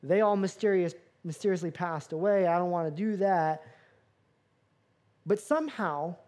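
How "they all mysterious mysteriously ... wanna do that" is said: nervous laugh. Retold or imitated. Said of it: "And the other guy's like".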